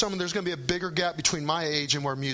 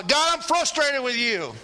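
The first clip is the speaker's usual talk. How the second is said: laughing mock yell; 7 semitones higher than usual. Shown as a demonstration. Preacher shows the congregation a yell at God, laughing. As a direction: play at yelling at God while laughing. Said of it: "You may not wanna yell".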